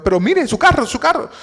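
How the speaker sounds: put-on worried boy. Teen protesting about the car.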